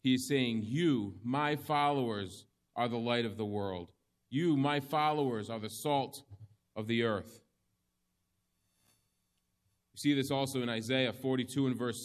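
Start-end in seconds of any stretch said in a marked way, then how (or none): 0.6-7.4 a preacher stressing "You, my followers"; emphatic you. Shown as a demonstration. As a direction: point straight at the listeners with "You". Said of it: "The "you" is emphatic".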